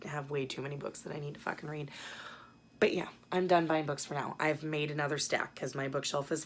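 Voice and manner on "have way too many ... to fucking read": whisper. Real, not acted. Confessing her book backlog.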